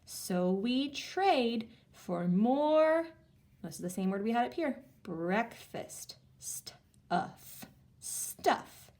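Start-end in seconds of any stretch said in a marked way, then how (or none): 5.0-8.9 whispered, slow, unvoiced. Shown as a demonstration. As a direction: breathe the words out in a hush. Teacher whispers answer.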